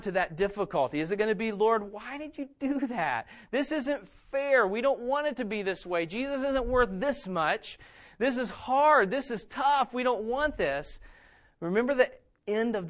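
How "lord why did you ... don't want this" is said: higher, slowed, whining protest to God; a touch of a petulant grumble, complaining to the Lord; mock whiny complaint. Acting a complaining prayer.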